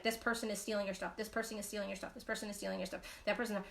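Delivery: imitating the gossip that feeds you, softly; nagging gossip voice.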